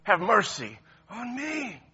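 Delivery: very loud, high full-force shout; cranked all the way up. Acted. Beggar refusing to tone it down for Jesus. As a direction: shout it with everything you have. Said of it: "He cranked it up all the way".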